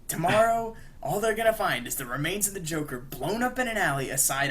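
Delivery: loud, high opening then sustained theatrical threat; mock menace. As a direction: declaim it like a comic-book showdown. Charlie threatens the Joker.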